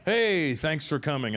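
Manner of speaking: slow, stretched-out casual greeting; lightly voiced laid-back host; easygoing unaccented prince. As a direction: welcome them breezily with a long hey. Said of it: "You know, he's like".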